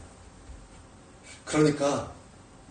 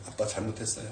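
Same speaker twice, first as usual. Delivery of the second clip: put-on low, hushed child's apology; small, subdued voice of a sorry daughter; meek apology; 11 semitones lower, 7 dB quieter than usual. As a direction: beg forgiveness softly. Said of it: "아빠한테 용서를 구하는 거예요".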